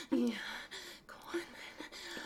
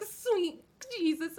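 ordinary talk

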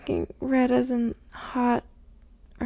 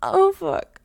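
overwhelmed gasp; 3 semitones higher, faster than usual. Acted. Overcome by pleasure.

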